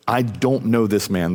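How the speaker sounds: slow, deliberate retold denial; sworn denial. Peter swearing to bystanders, slow and deliberate denial. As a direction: swear it word by word, without raising the voice. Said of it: "he swore to them".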